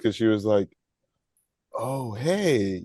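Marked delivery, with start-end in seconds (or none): 1.7-2.8 breezy, drawn-out greeting with a lilt; casual greeting. Retold or imitated. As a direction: imitate her unbothered hello.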